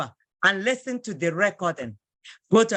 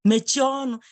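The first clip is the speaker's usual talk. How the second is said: polite; 2 semitones higher than usual. Shown as a demonstration. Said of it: "Just politely".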